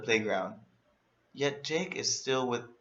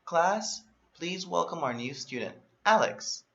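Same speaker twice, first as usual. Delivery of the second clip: a higher, lightly voiced teacher greeting the class; light teacher impression, higher pitched; 6 semitones higher than usual. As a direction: announce the new kid like the teacher would.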